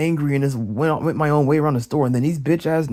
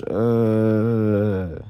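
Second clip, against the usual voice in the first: long low groan of disgust; drawn-out exasperated "uh"; 5 semitones lower than usual. Real, not acted. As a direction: drag out a fed-up groan. Groans after saying he hates her.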